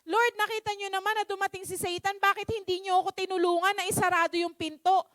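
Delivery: mildly exasperated appeal; annoyed complaint. Acted. Man asking the Lord why He didn't help, mildly annoyed. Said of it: "naiinis siya".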